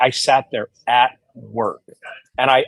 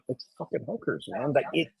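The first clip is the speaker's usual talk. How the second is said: emphatic; 4 semitones higher, 3 dB quieter than usual. Retold or imitated. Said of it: "I'm the one that's like".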